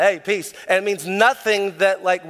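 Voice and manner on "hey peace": offhand throwaway Hey, peace; casual peace. Shown as a demonstration. Preacher mocking the American greeting, offhand. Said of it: "in America, that's what we're like".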